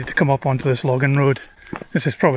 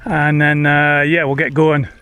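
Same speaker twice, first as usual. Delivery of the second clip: raised voice over the wind; shouting over wind. Real, not acted. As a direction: speak up over a gusty wind. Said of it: "Hopefully you can hear me over the wind okay".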